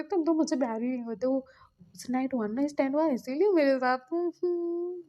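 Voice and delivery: mild acted pout with a whimper; tearful complaint. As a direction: sulk as if tears are coming. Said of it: "आंखों में आंसू आने लगे थे". (हल्का रुआँसा, शिकायती लहजा)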